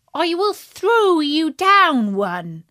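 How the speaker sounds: sweetly tricking, slow; little pig voice. Acted.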